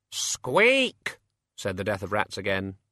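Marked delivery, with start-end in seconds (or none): 0.1-1.2 tiny high squeak; rat squeak. A narrator's reading. Death of Rats squeaks.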